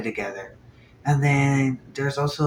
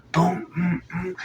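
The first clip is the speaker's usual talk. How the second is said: sound effects; 6 semitones higher than usual. Retold or imitated. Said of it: "the sound effects, the onomatopoeia".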